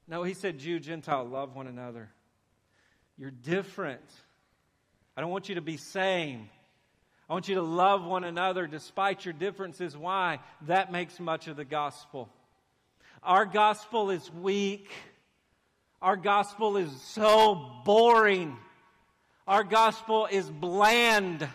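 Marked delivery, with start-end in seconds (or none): 0.6-10.0 gentle. Retold or imitated. God's gentle command. 13.2-21.5 emphatic preaching. Real, not acted.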